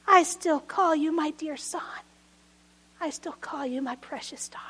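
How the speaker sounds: put-on God tenderly naming a child, fading to a whisper; tender fade to whisper. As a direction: speak it like a secret of love. Jesus' tender words, fading.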